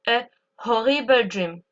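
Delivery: horrible opened with an exhaled H; breathed H. Shown as a demonstration. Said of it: "pour prononcer le H en anglais".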